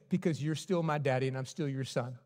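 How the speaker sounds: a hint of a small boy; small child answering. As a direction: son answering daddy quietly. Son answering father.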